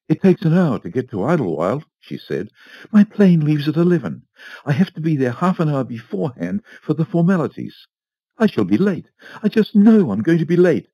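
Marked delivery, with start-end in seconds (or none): 0.1-1.8 anxious Mrs Foster. A narrator's reading. Fretting wife to the butler. 2.9-10.9 high, loud, rising panic of a worried lady; fretful Mrs Foster. A narrator's reading. Wife frets to the butler about missing her plane, high and panicky. Fretting wife voiced in story.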